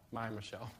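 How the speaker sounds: laughing softly through the words; fond laugh. Real, not acted. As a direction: chuckle as you talk about her.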